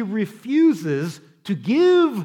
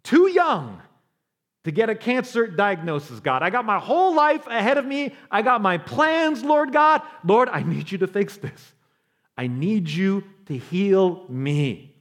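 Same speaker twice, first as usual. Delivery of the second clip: anguished prayer; 4 semitones higher than usual. Acted. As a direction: cry out to God in desperation. Pleading prayer over cancer diagnosis.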